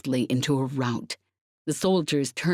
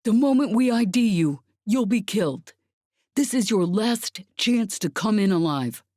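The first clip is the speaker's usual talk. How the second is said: higher and louder, as if over a loudspeaker; a commander booming through a megaphone; amplified voice; 6 semitones higher, 4 dB louder than usual. A narrator's reading. Soldier's commander warning unseen attackers, loud amplified order. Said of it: "came an amplified voice from outside".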